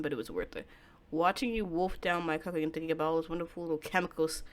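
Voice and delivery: a hint of a hushed, menacing lover; lightly voiced calm stalker, soothing and sinister; quiet possessive captor; creepy soft-spoken boyfriend. Takuya voiced again.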